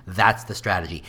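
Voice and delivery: ordinary talk, nothing marked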